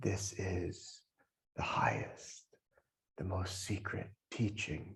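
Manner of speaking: very quiet, close, secretive whisper. Telling a story, the speaker voices the guru speaking into a disciple's ear, whispering. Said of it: "the guru whispers into the disciple's ear".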